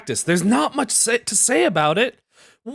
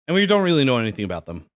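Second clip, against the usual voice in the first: ordinary talk, nothing marked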